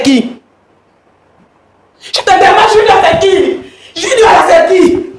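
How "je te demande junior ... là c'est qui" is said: bitter laughing demand. Real, not acted. Wife confronts husband about Junior.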